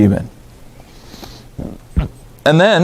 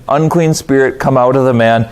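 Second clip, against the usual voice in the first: calm command. Retold or imitated. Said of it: "He's just calmly saying".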